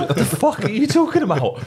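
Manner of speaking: high and loud, laughing through it; laughing disbelief. Retold or imitated. Teammates mocking the fooled lad, high laughing yell. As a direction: crack up as you ask.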